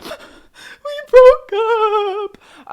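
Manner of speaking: high, loud mock sob of a dumped teen; sobbing wail. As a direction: wail it out like you're crying your eyes out. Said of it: "I was sobbing".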